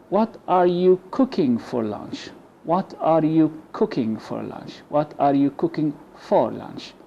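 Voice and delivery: "for lunch" with for as a quick "fuh"; weak for. Shown as a demonstration. Teacher modelling the weak "for" in "cooking for lunch". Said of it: "We can say".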